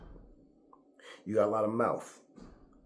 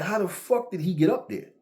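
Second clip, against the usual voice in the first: high, loud "how the fuck" in disbelief; bewildered crew asking how he got up there; mock astonished shout; retold disbelief; 9 semitones higher, 4 dB louder than usual.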